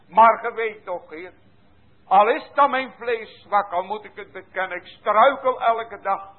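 impassioned prayer. Acted. Sinner begging the Lord to hold him, pleading. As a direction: cry out to God for help.

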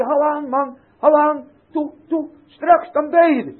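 loud, high urging call; cheering encouragement. Acted. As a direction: spur a struggling cripple on to the table. Cheering on a cripple. (luid en hoog aanmoedigend geroepen)

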